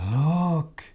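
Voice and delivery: slow hushed whisper; whispered wonder at the sunrise; awed whisper. Acted. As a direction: breathe it in awe. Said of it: "said Crocodile".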